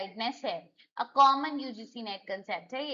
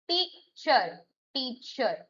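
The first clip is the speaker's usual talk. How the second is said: टीचर with the टी drawn out and stressed; stress on first syllable; much slower than usual. Shown as a demonstration. Teacher showing students first-syllable stress, stress on टी in टीचर. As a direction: lean on टी, let चर drop away. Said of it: "टीचर में टी पे है".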